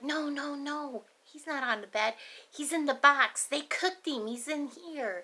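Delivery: lightly voiced insistent little girl; a touch of a kid correcting the grownups; mild child voice, matter-of-fact; child insisting. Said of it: "she was like".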